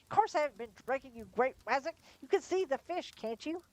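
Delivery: how can you doubt me; indignant driver. A narrator's reading. Driver loses temper at sergeant.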